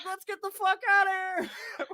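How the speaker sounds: high, loud yell to flee; retold urgent shout. Teller urges friends to flee the guard, urgent shout. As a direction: re-enact a frantic call to escape. Urging escape from yelling guard.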